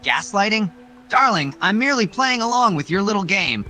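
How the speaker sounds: a hint of smug flirtation; teasing suitor. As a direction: tease her like a smug courtier. Same teasing hero voice.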